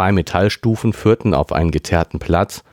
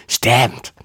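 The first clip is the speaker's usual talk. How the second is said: croaky voice; 6 semitones higher than usual. A narrator's reading. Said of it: "krächzte Karen".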